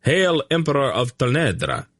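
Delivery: high ringing cheer; a legion's roar of acclaim, pitched high; thundering salute. A narrator's reading. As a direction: cry it out like massed soldiers. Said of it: "the legions thundered".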